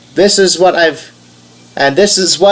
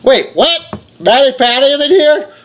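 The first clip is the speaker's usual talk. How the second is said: surprised; 8 semitones higher than usual. Real, not acted. Finds youtubers in splash screen.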